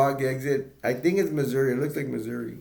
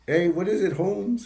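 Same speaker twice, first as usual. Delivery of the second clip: higher, louder, awkwardly imitated Black street talk; botched Black slang accent; 7 semitones higher, 4 dB louder than usual. Dad greets a local, botched Black American accent. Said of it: "He doesn't know how to talk black".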